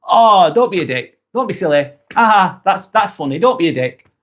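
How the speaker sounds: light, friendly teasing; light, joking. Shown as a demonstration. Explaining tone to viewers with a harmless swear, light and friendly. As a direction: toss it off lightly, no edge. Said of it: "I've said it in a light way".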